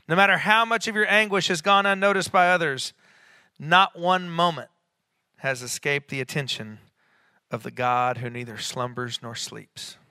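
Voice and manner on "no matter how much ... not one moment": raised preacher's voice, slowing on the final phrase; fervent preaching. Real, not acted. Preacher reassuring those whose anguish went unnoticed, fervent. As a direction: press the assurance home.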